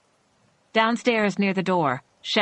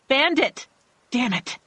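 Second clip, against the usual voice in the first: calling out; 7 semitones higher than usual. Acted. Calling for dog, cursing.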